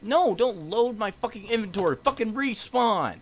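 loud frustrated ranting; furious gamer rant; angry yelling. Real, not acted. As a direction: curse it out at full volume. Raging at respawn.

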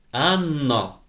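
name called firmly with a falling end; stern, deliberate. A narrator's reading. Teacher reprimanding the pupil, stern and deliberate. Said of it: "повільно й голосно цідячи слова".

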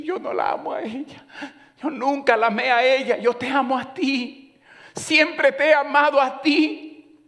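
voicing a husband begging his wife; pleading husband. Husband begging wife's forgiveness.

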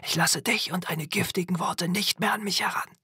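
high, strained whispery outburst; voice cracking over. A narrator's reading. Boy rejecting his mother's words, voice breaking over. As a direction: spit it out high, breath overtaking the voice. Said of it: "Seine Stimme überschlug sich".

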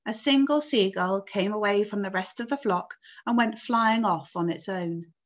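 put-on expressive read-aloud to children; story narration. A narrator's reading. Teacher reading the peach story to pupils, story narration. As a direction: read the story out clearly to a class.

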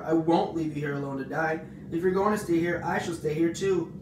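loud, insistent vow, pitch climbing; shout. A narrator's reading. Pig refuses to leave dying spider, shouting. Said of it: "shouted Wilbur".

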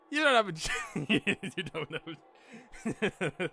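breaking up mid-line; real laughing. Real, not acted. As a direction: try to read on but crack up laughing. Reader cracks up mid-line.

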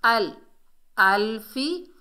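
अल as one joined beat, then अल्फी; joined-letter demo. Shown as a demonstration. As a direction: link the hamza straight into l in अल्फी. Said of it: "हमज़ा को लाम से मिलाएंगे".

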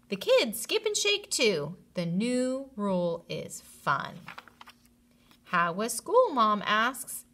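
lively storybook reading; reading to children. A narrator's reading. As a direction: wrap up story time brightly. Finishing the story aloud.

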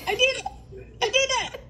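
laughing. Real, not acted. Mom triumphant laughing.

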